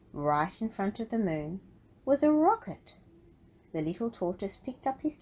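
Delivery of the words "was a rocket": higher and louder, a sudden discovery; storyteller unveiling the rocket; excited reveal. A narrator's reading. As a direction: gasp it out as the big surprise. Big reveal in narration.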